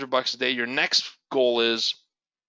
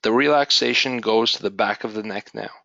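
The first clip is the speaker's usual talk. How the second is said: guided meditation. Acted.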